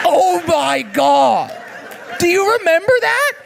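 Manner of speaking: high, loud delighted laughing; excited shriek. Real, not acted. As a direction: squeal with nostalgic glee.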